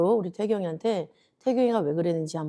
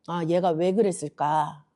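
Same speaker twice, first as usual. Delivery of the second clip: slow, thoughtful musing; caring wondering; 2 semitones lower than usual. Acted. God considering the child's heart, caring wondering. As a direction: wonder it patiently, with understanding. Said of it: "그 마음을 생각을 해보시고".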